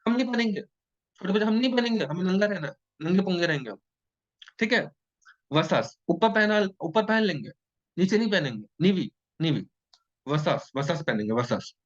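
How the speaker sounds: put-on high, singsong kid refusing; stubborn little child. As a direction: play a toddler who won't dress. Teacher voicing stubborn small child.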